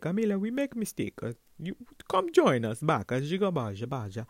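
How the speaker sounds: a hint of a broken-English accent; lightly voiced foreign boss. Owner phoning to rehire her, lightly mimicked accent.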